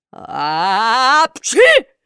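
loud booming sneeze; thunderous sneeze. A narrator's reading. Karabas sneezes so hard puppets fly. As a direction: blast the sneeze out. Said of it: "чихнул с таким шумом".

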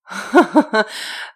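loud, high mocking laugh. Captor laughing at the girl's question, mocking. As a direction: laugh right in her face. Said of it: "рассмеялся парень".

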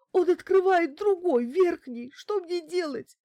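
high, loud hysterical outburst; frantic high cry for help; panicked. A narrator's reading. Bankina as the intruder opens the upper lock, panicked.

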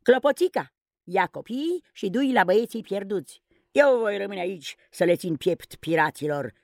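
rushed and alarmed; agitated shout. Acted. Peter Pan urgently sending Tinkerbell off with the children. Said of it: "țipă Peter agitat".

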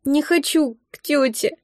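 put-on slow whiny child's whimper; a touch of a whimpering little boy. A narrator's reading. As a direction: whine like a small child. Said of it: "захныкал Саша".

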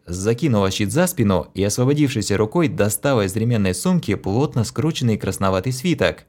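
ordinary delivery, nothing marked

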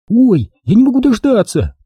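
put-on high, squealing-eager girl's voice; impatient excitement. A narrator's reading. Mia can hardly wait at the garage, impatient excitement. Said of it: "подпрыгивала на месте от нетерпения".

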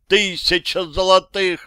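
loud slow yelled outcry; громкий крик. A narrator's reading. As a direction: shout it in horror at the broken rifle. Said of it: "заорал я". (громкий медленный крик отчаяния)

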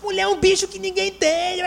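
high, slow exasperated sigh about women; mocking husband. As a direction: play the complaining husband, drawn out. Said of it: "Aí ele". (marido no consultório reclamando da esposa, exasperado)

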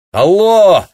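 joyful high shout down the line; shouting on the phone. Acted. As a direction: yell happily into the receiver. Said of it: "обрадованно заорал капитан".

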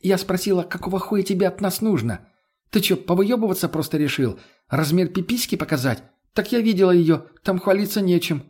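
put-on high, sneering young woman taunting; mocking Lena. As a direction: jeer at his ego, pitched high. (Лена высмеивает царя, высоким голосом)

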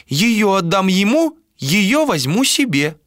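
put-on high, slow prophetic old voice; old woman prophesying. A narrator's reading. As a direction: chant it like a blind seer. Old seer repeats prophecy.

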